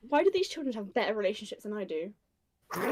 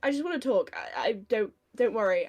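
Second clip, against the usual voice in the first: higher-pitched, stumbling request; awkward, hesitant; 4 semitones higher than usual. Acted. Asking to borrow his girlfriend, awkward and stumbling. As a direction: fumble your way into a conversation. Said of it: "stand there awkwardly 'cause she cannot start a conversation".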